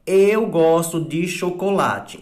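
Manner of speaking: exemplo lido devagar, "Eu gosto de chocolate." bem marcado; slow example sentence. Shown as a demonstration. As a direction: read "Eu gosto de chocolate." slowly with a full stop fall. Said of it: "observe os exemplos aqui". (frase de exemplo lida devagar)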